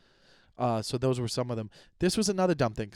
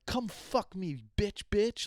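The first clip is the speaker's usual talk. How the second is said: much higher, hammed-up taunt; mock crude taunt; 8 semitones higher, slower than usual. Bad swearing example, squeaky mock taunt. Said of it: "or if you're like".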